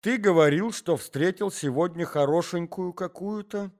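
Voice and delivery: high, indignant wife cutting in; wife interrupting her husband, high and indignant; sharp wife. A narrator's reading. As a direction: snap back, jealous and high. Wife asks.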